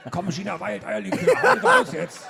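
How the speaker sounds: hoch, laut, lachend angefeuert; Teufelchen-Stimme. Retold or imitated. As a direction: wie ein kleiner Teufel auf der Schulter anstacheln. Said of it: "Und der kleine Donny Teufel". (kleines Teufelchen, hoch und lachend)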